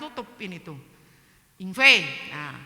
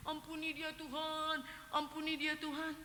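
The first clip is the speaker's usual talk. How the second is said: pleading prayer; 7 semitones higher, 11 dB quieter than usual. Retold or imitated. Speaker repeatedly begging God for the friend, pleading prayer. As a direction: re-enact praying quietly, words stretched. Re-enacts tearful night prayer.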